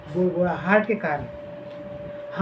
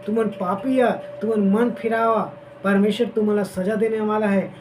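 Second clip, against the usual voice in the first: prophet's rebuke; 3 semitones higher than usual. Retold or imitated. Jeremiah rebuking the stubborn people, raised and stern. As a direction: call the stubborn people to repent. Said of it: "शिक्षा देवे कि".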